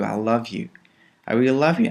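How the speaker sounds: tender. Shown as a demonstration. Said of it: "You can say".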